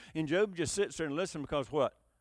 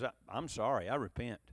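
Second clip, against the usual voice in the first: low, soft apology; subdued confession; repentant; 8 semitones lower, 5 dB quieter than usual. Acted. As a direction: humbly climb down, voice dropped. Voicing Job apologizing, not understanding.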